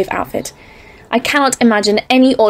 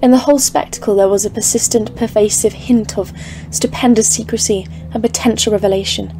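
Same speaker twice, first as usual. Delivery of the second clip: dread-filled story narration; 4 dB quieter, slower than usual. A narrator's reading. Narrator describing the dread peaks.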